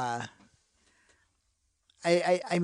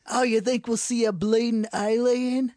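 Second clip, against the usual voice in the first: put-on rowdy British accent, higher and louder; 6 semitones higher, 5 dB louder than usual. Friends goofing, hyped Brit hunting aliens, loud British accent. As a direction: play a loud British lad up for a scrap. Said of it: "we just did every dialect".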